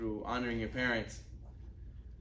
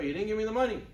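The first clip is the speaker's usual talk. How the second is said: higher, emphatic accusation; acted insistent protest; 7 semitones higher, 4 dB louder, faster than usual. Son telling his father no money came, emphatic protest. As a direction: play a son pushing back hard.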